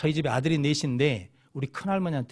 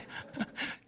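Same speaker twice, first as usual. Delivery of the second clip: soft unvoiced chuckle; brief quiet laugh to oneself; 12 dB quieter than usual. Real, not acted. Amused at own story. (작게 피식 웃음)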